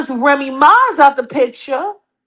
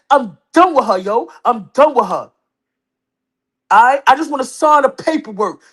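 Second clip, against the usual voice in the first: husband's voice. Pretend. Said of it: "So I'm using my husband's voice".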